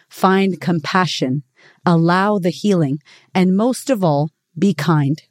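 slow, gentle reading of the closing lines; unhurried heartfelt reading; reading a reflective piece. Acted. Reads a written piece aloud.

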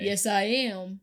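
slow, proud movie-star voice; smug Dwayne Johnson strut; the Rock impression. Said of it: "she's the rock".

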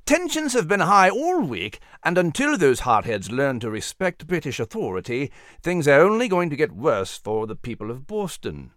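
indignant British officer, emphatic; angry. Acted. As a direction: build an angry case against a troublemaker. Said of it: "he surmised angrily".

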